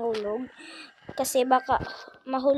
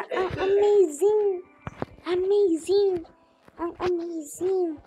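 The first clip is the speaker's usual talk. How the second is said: laughing; 6 semitones higher, 4 dB louder, slower than usual. Real, not acted. Laughing self-praise.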